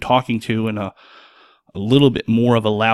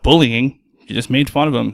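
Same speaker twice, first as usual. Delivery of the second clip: mock accusing shout; 5 dB louder than usual.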